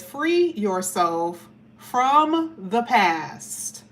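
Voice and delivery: drawn out, word by word; slow card reading. Shown as a demonstration. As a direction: stretch every word of the card out. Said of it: "it says".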